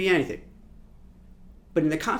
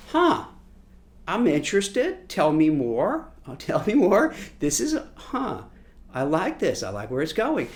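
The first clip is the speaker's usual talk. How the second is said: intrigued listener. Retold or imitated.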